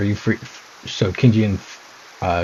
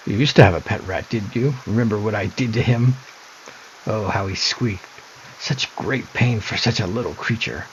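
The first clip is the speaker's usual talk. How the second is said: lightly voiced mocking sister, taunting; a sly sister toying with her brother; creepy sister; 3 semitones higher than usual.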